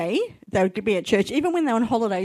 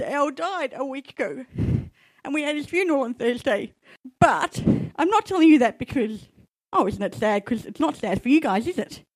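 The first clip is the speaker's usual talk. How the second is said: choked-up, holding back tears, pitched up; 5 semitones higher than usual. Addressing the group a week after a longtime companion died, trying not to cry. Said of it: "the reason I'm trying not to cry".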